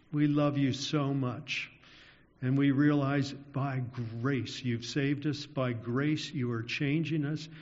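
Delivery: closing prayer. Acted.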